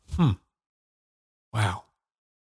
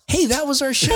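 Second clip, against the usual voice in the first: forced smile through clenched teeth; through gritted teeth; 9 semitones higher than usual. Acted. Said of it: "grit and say it through your teeth".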